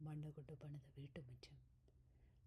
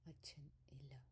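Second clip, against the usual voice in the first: softer, slow, breathy sorrow; voice changing; 2 semitones lower, 6 dB quieter, slower than usual. A narrator's reading. Mother on the phone to her son, softer and slow with grief. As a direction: let the loss quietly weigh on it. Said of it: "അമ്മയുടെ ശബ്ദം അല്പം മാറി".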